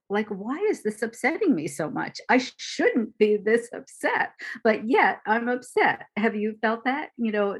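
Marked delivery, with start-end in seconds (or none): 0.3-6.1 a touch louder, exasperated self-scolding; self-critical inner voice. Retold or imitated. Teacher voicing the inner critic to her students, mild exasperated scolding. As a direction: scold yourself for being upset, mildly.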